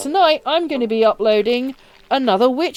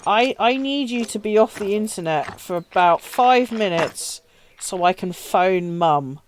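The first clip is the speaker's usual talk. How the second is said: mildly coaxing, measured request to a brother; imitating a patient, gentle request; nice soft voice; 3 semitones lower than usual. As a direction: ask nicely, slowing towards the end. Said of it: "in a very nice and soft voice".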